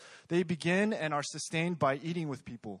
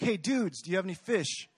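easygoing matey greeting, pitched up; casual friendly; 4 semitones higher than usual. Retold or imitated. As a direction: hail them like old buddies. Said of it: "it would be like".

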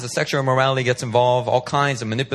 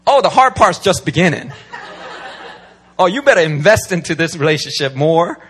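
mock knowing women; 4 dB louder than usual. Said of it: "they're thinking".

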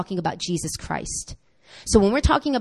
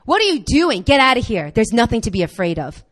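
faith rebuking fear. Retold or imitated. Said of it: "faith is rising up and saying".

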